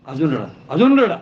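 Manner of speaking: mock mourner boss. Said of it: "ते म्हणतात घड्याळ बघून".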